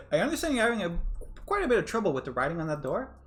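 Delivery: high, loud theatrical villain; villainous gentleman. Acted. The Professor greets the trapped girls, theatrical. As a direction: play the grand villain.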